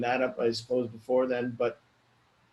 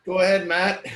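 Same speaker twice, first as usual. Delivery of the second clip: kind gentle laugh; 6 semitones higher, 5 dB louder than usual. Real, not acted. Giggling while handing over the floor.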